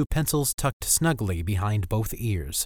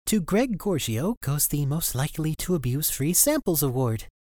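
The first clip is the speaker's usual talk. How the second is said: shaky voice; 6 semitones higher than usual. A narrator's reading. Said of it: "said with a shaky voice".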